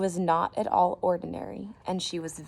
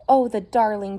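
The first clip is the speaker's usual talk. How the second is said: loud, gushing; adoring; 4 semitones higher, 9 dB louder than usual. Acted. Wife gushing over the piglet, adoring.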